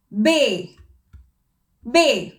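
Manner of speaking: ബേ said as a long clear bay; German letter name. Shown as a demonstration. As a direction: say ബേ like a teacher modelling. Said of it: "ബി എന്നുള്ള ജർമ്മനിൽ എങ്ങനെയാണ്". (ജർമ്മനിൽ ബേ എന്ന് ഉച്ചരിച്ച്)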